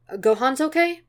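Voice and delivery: a hint of Bulma asking in disbelief; Bulma's voice. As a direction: lift it up into a surprised woman's voice. Bulma's voice in dialogue.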